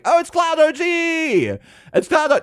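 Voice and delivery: light up at a friend's name; mock excited recognition; excited gasp. Excited reading out a viewer name.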